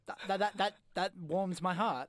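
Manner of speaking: slow sarcastic show of being touched. Real, not acted. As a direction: stumble in, then draw it out with dry sarcasm. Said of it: "That was, like, true sarcasm".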